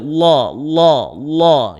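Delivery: "la" dark and rounded, close to "lo"; full, emphatic "la" as in Allah; thick lam. Shown as a demonstration.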